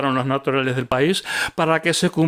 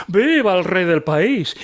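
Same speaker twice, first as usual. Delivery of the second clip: mocking cheer; 4 semitones higher, 3 dB louder, slower than usual. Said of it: "venían a él con reverencias".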